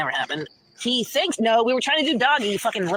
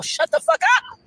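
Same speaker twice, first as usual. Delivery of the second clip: angry outburst; 5 dB louder than usual. Real, not acted. Telling an absent ex to stop talking, angry.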